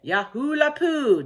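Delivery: high, loud cowboy whoop; excited yell. A narrator's reading. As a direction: holler it in long swoops. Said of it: "yelled Cowboy McCoy".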